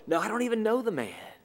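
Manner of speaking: quick, firmer second denial; insistent denial. Acted. Peter denying Jesus again to the crowd, quick and firmer. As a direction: hurry it out, pushing the accuser off.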